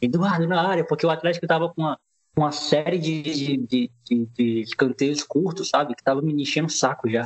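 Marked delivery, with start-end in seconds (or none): 0.0-0.8 play-acted called-out cheer, pitched high. Retelling shouting for a corner kick during a match: imitating own past shout. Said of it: "eu gritei, ó".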